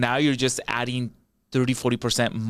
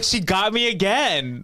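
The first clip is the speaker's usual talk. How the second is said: wry aside; 9 semitones higher, slower than usual. Retold or imitated. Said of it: "And I'm like".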